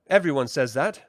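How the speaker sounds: brownie voice. Acted. Brownie Rule replies.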